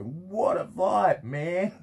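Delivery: attempted Australian accent, high and drawn out. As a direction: stretch "What a vibe" like an excited Aussie. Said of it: "I can't do an Australian accent".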